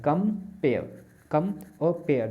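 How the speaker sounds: "कम" and "पेयर" said as two separate syllables, a pause between them; syllables split. Shown as a demonstration. Teacher splitting compare into syllables for students, clear and separate. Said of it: "कंपेयर शब्द जो है इसमें दो syllable हैं".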